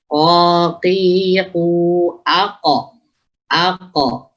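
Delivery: "Ko, ki, ku, ako" with a uvular q; "ako" with the q made at the tongue root; thick qaf drill. Shown as a demonstration. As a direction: intone "Ko, ki, ku, ako" as separate syllables. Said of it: "Itu ko".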